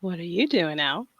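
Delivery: soft but voiced attempt; failed whisper. Shown as a demonstration. Copying the coach without success, failed whisper. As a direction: try whispering, let the voice leak in. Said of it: "so you can't whisper".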